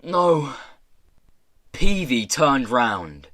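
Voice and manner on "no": higher, strained cry of protest; thin-voiced shout. A narrator's reading. Prisoner protesting at the cage bars, thin shout. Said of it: "he heard himself shouting".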